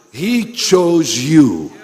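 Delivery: P=A; emphatic. Acted. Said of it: "He found you".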